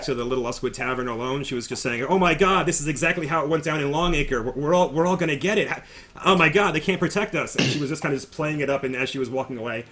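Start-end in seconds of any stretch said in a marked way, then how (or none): 2.0-7.5 mildly played-up panic, pitched higher; lightly hammed-up alarm, a bit raised; Iwin faking fear. Iwin walking back to the tavern among townspeople, mock fearful. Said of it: "just kinda playing up the fear".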